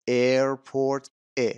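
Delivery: "ایرپورت" said clearly, then its opening vowel alone; first sound shown. Shown as a demonstration. Teacher showing learners which sound they hear first, careful demonstration.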